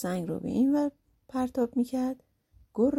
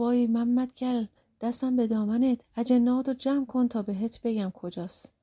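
slightly raised voice, begging; mild pleading shout; 3 semitones higher than usual. Acted. Beaten thief begs Mohammad to call off spirits, mild shout. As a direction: cry out for mercy, held back. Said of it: "مرد داد زد".

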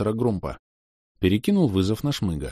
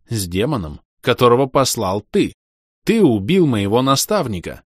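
louder, rising angry growl; furious roar; 4 semitones higher, 6 dB louder than usual. Acted. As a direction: roar it in fury. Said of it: "Добавляя ярости в голос, прорычал я". (яростно рычит)

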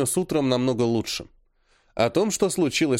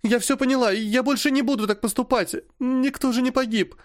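put-on much higher, begging girl's voice; pleading girl; 11 semitones higher than usual. A narrator's reading. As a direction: plead like a tearful child. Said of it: "умоляюще спросила она". (умоляюще, высоким голосом)

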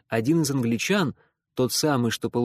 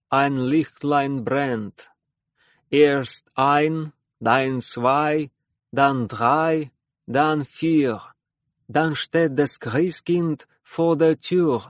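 slow, loud German poem recital; German verse recital; 4 dB louder, much slower than usual. Acted. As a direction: recite it like a child's Advent rhyme. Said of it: "он прочитал рождественское стихотворение".

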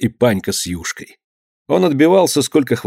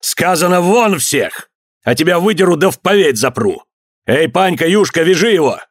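гневный приказ; 6 semitones higher than usual. A narrator's reading. Отец приказывает холопам.

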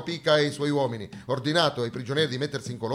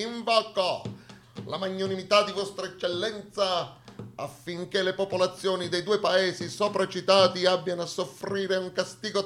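lettura formale, più acuta, da ufficiale ottocentesco; dispaccio solenne letto; 5 semitones higher than usual. Acted. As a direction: supplica ossequiosa al superiore. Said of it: "invia un dispaccio al generale Cialdini". (il liberale Jacobelli scrive al generale, tono solenne e accorato)

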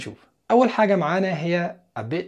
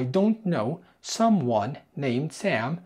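slow model phrase; much slower than usual. Shown as a demonstration. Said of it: "ولا هيقول له".

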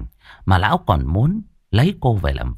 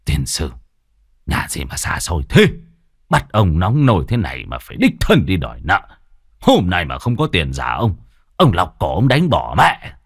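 low, grumbling curses while trudging in the heat; cursing grumble; 3 semitones lower than usual. Acted. Moneylender cursing the heat on his way to collect debt, grumbling low. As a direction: swear under your breath at the long hot road. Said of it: "Lão Khâm vừa đi vừa chửi động".

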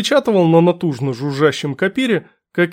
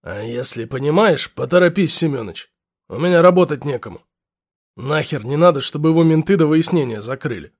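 gruff lieutenant; 2 semitones lower than usual. Acted. Lieutenant voiced.

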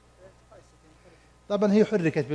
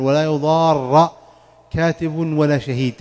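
"ولا يضار" slow and louder, recited; slow recitation; 4 dB louder, slower than usual. Shown as a demonstration. Teacher reciting the verse for students, slow. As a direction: intone the verse slowly. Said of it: "نفس الكلام قال".

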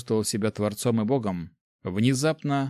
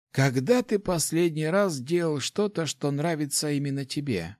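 put-on higher, fond old mentor voice; old rector voice; 5 semitones higher than usual. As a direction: speak as a kindly old master. Rector speaks.

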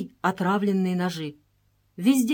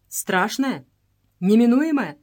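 strong, louder stress on «Неминуемая»; stress on last word; 3 semitones higher, 7 dB louder, slower than usual. A narrator's reading. Princess questioning the priestess about death, «Неминуемая» strongly stressed. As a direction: hit «Неминуемая» hard after «Страшная». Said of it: "с сильным ударением на последнем слове".

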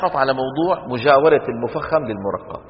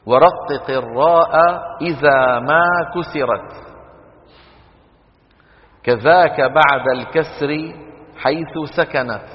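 slow, measured chanting of verses; poem recitation; slower than usual. Acted. Teacher recites the Jazariyya verses to the class.

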